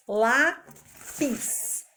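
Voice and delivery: lápis with the first syllable lá hit hard; stress on LÁ. Shown as a demonstration. Teacher stressing the accented syllable of lápis. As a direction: lean on lá in lápis. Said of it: "o acento agudo pra ficar forte".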